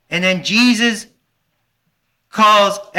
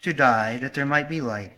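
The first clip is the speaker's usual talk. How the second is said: lower, much softer solemn quote; soft words of Jesus; 6 semitones lower, 7 dB quieter than usual. Retold or imitated. Preacher quoting Jesus' call, hushed.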